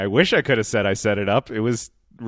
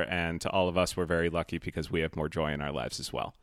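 softly recited toast, a bit quieter; quiet, quoted toast; 4 semitones lower, 6 dB quieter than usual. Retold or imitated. Quoting the best man's toast.

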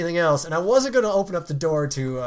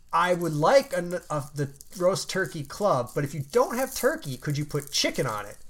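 carefully spaced-out request to a difficult clerk; deliberate ordering. Retold or imitated. Retelling his repeated, exasperated order.

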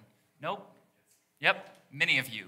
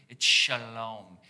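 mock Hebrew accent; 4 semitones lower, 6 dB louder than usual. Shown as a demonstration. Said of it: "Say it with, like, a nice, deep voice and add some sort of Hebrew accent to it".

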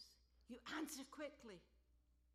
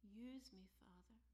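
whispered asking; 5 dB quieter than usual. Real, not acted. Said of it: "repeated question".

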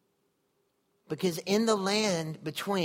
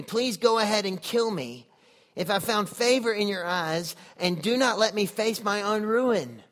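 louder pleading Moses, rising in pitch; despairing plea; 3 semitones higher, 4 dB louder than usual. Acted. Moses begs God to take his life, anguished plea. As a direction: push it out like a man at the end of his rope.

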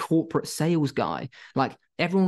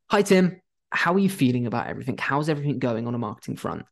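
friendly check-in call. Shown as a demonstration. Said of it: "the best line you can give is the following".

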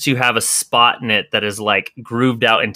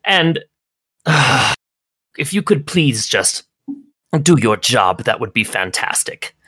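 higher, slow and put-upon; haughty Agnes; 6 semitones higher than usual. Acted. Agnes lectures Welsh about her important work, exasperated. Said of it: "she says".

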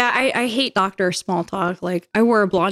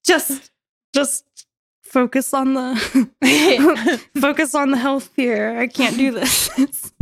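laughing; 2 semitones higher, slower than usual. Real, not acted. Laughing at own awkward memory.

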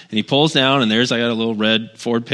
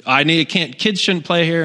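mock-upset neighbor, pitched higher; 6 semitones higher than usual. Upset neighbor objecting to the weeding, mock upset. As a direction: imitate a flustered, objecting neighbor. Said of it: "she was all upset".

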